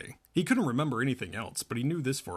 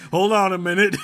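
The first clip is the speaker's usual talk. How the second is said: calling out; 6 semitones higher, 10 dB louder than usual. Acted. Character calls out on phone.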